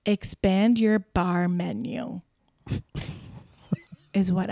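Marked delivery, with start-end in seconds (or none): 0.0-2.2 sassy comeback. Pretend. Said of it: "to which I say".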